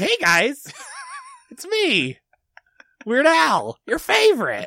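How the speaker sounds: clumsy, very high celebrity voice, swooping slowly. Acting out a reveal after throwing off a trench coat: a singer's voice. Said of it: "I'm just not good at doing your voice".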